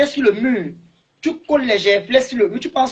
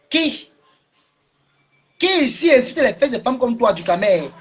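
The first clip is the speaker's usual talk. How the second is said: interpellation furieuse; 4 semitones higher than usual. Real, not acted. Insultes en direct.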